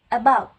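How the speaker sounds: loud, firmly stressed "about"; main stress demo. Shown as a demonstration. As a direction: press hard on the main syllable of "about". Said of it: "Main stress given more pressure in a syllable".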